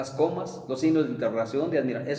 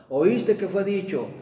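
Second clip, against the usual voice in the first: slow, raised, weighty reading of the verse; emphatic scripture quote; 5 semitones higher, 4 dB louder, slower than usual. Acted. Preacher to congregation, quoting Jesus, slow and emphatic. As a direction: proclaim each word like scripture.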